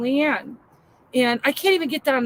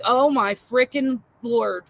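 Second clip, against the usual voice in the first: exasperated groan; slower than usual. Retold or imitated. Exasperated reaction retold.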